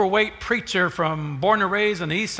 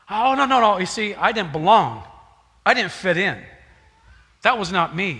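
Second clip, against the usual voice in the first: flustered refusal; 6 dB louder than usual. Retold or imitated. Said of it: "refusing the meal in story".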